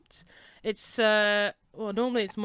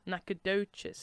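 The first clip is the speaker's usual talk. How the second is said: slow, soft plummy grande dame; like a duchess; 6 dB quieter, slower than usual. Shown as a demonstration. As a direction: say Nacogdoches slowly and grandly, like a duchess. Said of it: "like a duchess".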